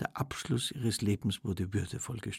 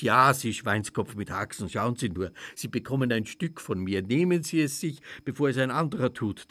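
grand loud invitation; 5 dB louder than usual. Acted. Hostess at feast addressing guests.

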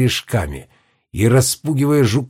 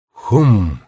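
heavy stomp thud; 2 semitones lower, 3 dB louder than usual. A narrator's reading. Stone giants stomping.

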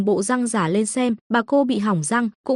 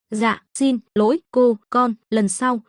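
lisping; slower than usual. Acted. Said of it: "nói chuyện hơi ngọng".

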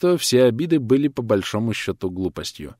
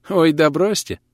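put-on higher, smiling young woman's voice; lightly voiced girl, amused and raised; 8 semitones higher, 4 dB louder than usual. A narrator's reading. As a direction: brush it off with an audible smile. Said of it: "улыбнулась девушка".

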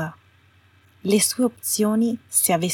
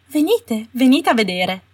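coaxing Umbridge; 5 semitones higher, 5 dB louder than usual. A narrator's reading. Umbridge luring girls to weapons.

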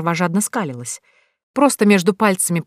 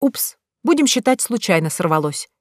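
serene tone; 3 semitones higher than usual. Acted. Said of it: "прокомментировала я безмятежным тоном".

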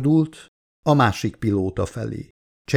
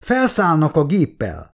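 high, lightly acted distressed cry; narrator's mild version of a tearful outcry; breaking into tears; 6 semitones higher than usual. A narrator's reading. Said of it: "sírta el magát a doktornő". (enyhén síros, kétségbeesett hang)

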